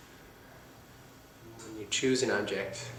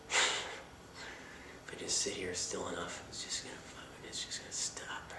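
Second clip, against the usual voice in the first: hushed whisper; 3 semitones lower, 9 dB quieter than usual. Retold or imitated. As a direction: whisper it to yourself. Retold stubborn inner thoughts.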